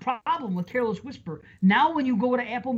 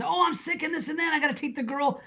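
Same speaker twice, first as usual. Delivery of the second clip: faking frailty; 5 semitones higher, 4 dB quieter than usual. Retold or imitated. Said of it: "he pretends to be sick and he goes".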